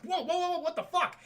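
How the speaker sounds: high, laughing whoa whoa; hammed-up astonishment with a laugh; mock stunned. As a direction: play the gargoyles gaping, half laughing. Gargoyles stunned, retold.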